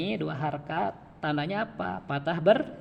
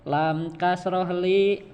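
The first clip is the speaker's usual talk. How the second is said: slow, clear "Lam kasroh li"; teacher modelling "Lam kasroh li"; slow spelling drill; 3 dB louder, much slower than usual. Shown as a demonstration. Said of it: "Saya dulu, Pak, ya".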